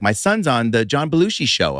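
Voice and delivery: lightly voiced proud mother; imitated mom. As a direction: play a mom telling people, mildly put on. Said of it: "my mom always butchered".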